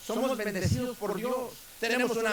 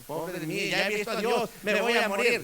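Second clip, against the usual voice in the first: retold wailing. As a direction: imitate someone bemoaning their fate. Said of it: "estaba chillando".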